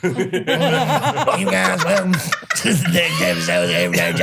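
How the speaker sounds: mock a show intro through a voice box; trach voice. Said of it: "doing the show of his tray coal".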